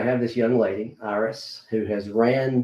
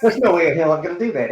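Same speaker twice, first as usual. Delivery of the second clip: emphatic refusal; 6 semitones higher, 5 dB louder, faster than usual. Retold or imitated. Inner debate on the drive home.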